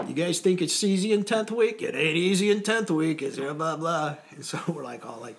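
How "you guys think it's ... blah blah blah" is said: high, louder taunting company commander; mock commander taunt. Company commanders taunting other companies, high and loud. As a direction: taunt the other recruits, hammed up. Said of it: "company commanders are going".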